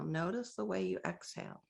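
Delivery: ordinary talk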